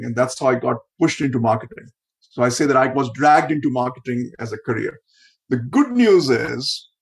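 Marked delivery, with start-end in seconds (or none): 5.5-6.9 slow, with good leaned on hard; stress on good. Real, not acted. Guest telling the podcast host his good news, stressing good. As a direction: hit the word good to mean it. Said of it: "I really mean it by emphasizing the word good".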